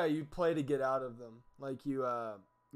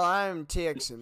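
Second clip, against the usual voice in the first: slow, hammed-up Texan accent drawl; slow mock Texan accent; slower than usual. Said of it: "Both of those was worse than the last".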